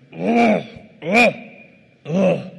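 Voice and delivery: loud guttural ugh grunts, short bursts; growl. Retold or imitated. Pastor imitating his friend's annoyed growl, loud. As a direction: grunt it out like something's bugging you. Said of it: "Ken's got this growl thing".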